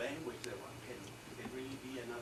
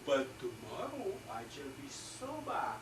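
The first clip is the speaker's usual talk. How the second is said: Churchill's retort; 5 semitones higher, 3 dB louder, slower than usual. Retold or imitated. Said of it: "he goes".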